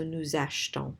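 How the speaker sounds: achetons as "ash-ton", no E after the sh; silent E in achetons. Shown as a demonstration. Teacher not wanting the E heard, achetons as "ash-ton". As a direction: run sh straight into t in achetons. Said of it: "we don't want to hear the E".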